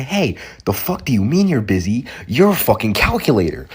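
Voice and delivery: mock angry retort. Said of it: "So I say".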